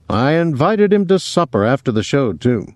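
a touch of hearty big talk; lightly voiced Willie. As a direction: put the question with a playful lift.

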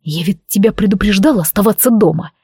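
ordinary delivery

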